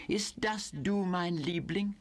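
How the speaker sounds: high cooing German, sugary smile in the voice; fatuously sweet. Acted. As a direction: gush sweetly to a lover on the phone. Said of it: "Her voice opened in a fatuously sweet smile".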